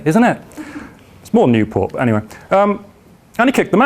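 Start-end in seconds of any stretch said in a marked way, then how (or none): 0.0-0.4 "Isn't it?" as a Cardiff tag; quick demo of a Cardiff accent. Shown as a demonstration. Showing the audience what Cardiff people say, Cardiff accent. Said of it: "'Cause that's what they say".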